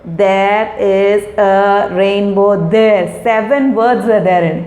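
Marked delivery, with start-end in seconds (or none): 0.0-3.2 slow demo. Shown as a demonstration. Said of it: "You say".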